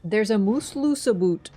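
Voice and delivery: slow Scottish-like Canadian accent phrase. Shown as a demonstration. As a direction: say it slowly in a put-on Canadian accent. Performing Canadian accent phrase on request.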